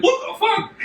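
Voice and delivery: very high startled yelp; shocked outcry. Retold or imitated. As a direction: squeal it like a shocked guy. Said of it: "him being like".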